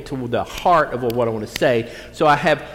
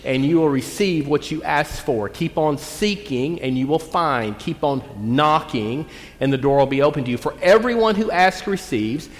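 deliberate pulpit reading; scripture reading. Acted. Scripture reading, slow emphatic.

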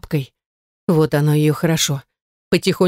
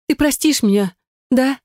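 pleading ask; 7 semitones higher than usual. Acted. Sister begs forgiveness.

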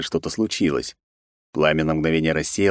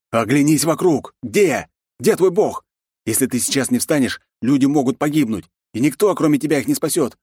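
angry yelling; 8 semitones higher, 3 dB louder than usual. A narrator's reading. Hero yells at praying boy.

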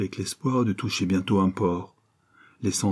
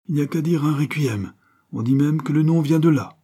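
put-on higher, hearty old sailor holding forth; sailor's voice; 6 semitones higher than usual. A narrator's reading. Alfonso's long speech voiced.

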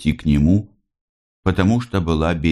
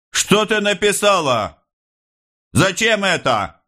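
high, indignant officer voice; officer's exclamation. A narrator's reading. Officer exclaiming at the mother's signature, high. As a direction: exclaim in disgust. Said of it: "воскликнул офицер".

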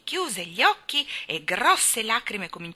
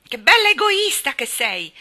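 loud, higher accusing yell; angry shout; 8 semitones higher, 12 dB louder than usual. A narrator's reading. Colin accuses Mary of selfishness, shouting. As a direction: hurl it as an insult. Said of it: "gridò lui".

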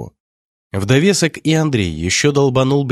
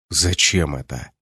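slow angry hiss, lower; whisper yelling; 5 semitones lower than usual. Acted. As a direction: hiss it angrily under your breath. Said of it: "сердито прошипел Андрей". (сердитый шёпот-крик)

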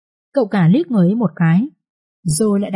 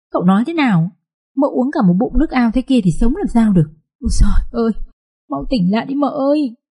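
maid crying out in panic, pitch climbing higher; a scared servant wailing over her mistress; panicked high lament over the drowned mistress; frightened wailing; 4 semitones higher than usual. Acted. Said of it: "con này gào toáng lên như vậy".

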